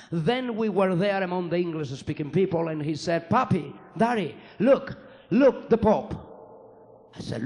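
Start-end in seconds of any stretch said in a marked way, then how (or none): 3.3-6.1 lightly voiced toddler, a bit higher and louder; a small boy tugging at his dad to look; little son calling. Son in the back seat calling his papi, lightly voiced toddler.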